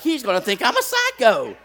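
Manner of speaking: said through laughter; laughing. Real, not acted. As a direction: laugh at your own embarrassment. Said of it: "laughing confession".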